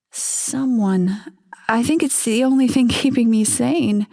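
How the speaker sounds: half a smile in the voice; wife's voice. Acted.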